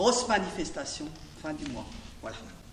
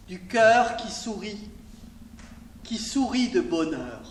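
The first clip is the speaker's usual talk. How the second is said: measured lyrical reading with pauses between lines; poem read out in spaced phrases; poetry recitation. Acted. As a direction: recite each short line and let it settle. Recites own poem L'oreille.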